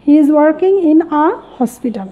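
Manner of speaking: slow, careful, hospital with a sounded h; slow model sentence. Shown as a demonstration. Teacher reading the corrected sentence to learners. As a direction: read it slowly so they hear the a. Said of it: "এ বসাবো".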